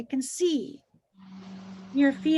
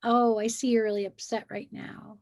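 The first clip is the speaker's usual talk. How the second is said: put-on calm the child gently; gentle, soothing; 2 semitones lower than usual. Parent soothing an upset child, gentle and calm. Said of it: "you might say something like".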